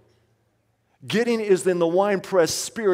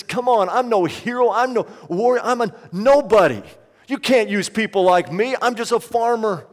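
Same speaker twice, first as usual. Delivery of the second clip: higher and louder, protesting in disbelief; incredulous Gideon; 3 semitones higher, 3 dB louder than usual. Acted. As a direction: push back like a man who can't believe he's chosen. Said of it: "He says".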